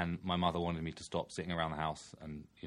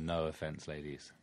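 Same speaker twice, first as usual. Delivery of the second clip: whisper; 3 semitones lower, 7 dB quieter, slower than usual. Real, not acted. Whispered joking aside.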